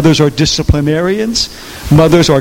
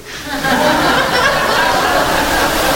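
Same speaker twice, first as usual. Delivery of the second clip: high laugh at his own punchline; real laughter at the joke; big laugh; 13 semitones higher, 4 dB quieter than usual. Real, not acted.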